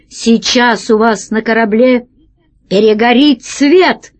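a mock council of dinosaurs threatening pirates; imitating Pashka. Small boy imitating Pashka's menacing radio voice. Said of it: "сказал таким же голосом, как Пашка".

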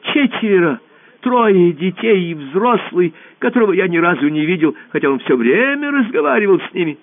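high squeaky little voice; ball answering the emperor in a squeak. Acted. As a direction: squeak nervously, small and high. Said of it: "пропищал шар".

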